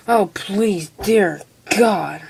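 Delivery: breathed plea, no voice at all; real pleading whisper. Real, not acted. Whispering to herself after a mouthful of burning spearmints, a real whispered plea. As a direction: beg under your breath as the mint burns.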